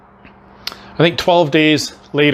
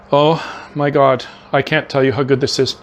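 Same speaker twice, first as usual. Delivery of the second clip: mouth full. Real, not acted. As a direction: talk while chewing. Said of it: "forgive me for talking with my mouth full".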